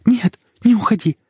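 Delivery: high, loud frightened begging; terrified plea. Acted. Wife begs husband not to leave her, panicked. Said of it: "Мне стало жутко страшно".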